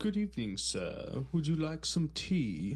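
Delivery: hoity-toity upper-crust British accent. Showing the accent that would make them want to slap someone: hoity-toity British accent. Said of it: "that hoity-toity British fucking shit".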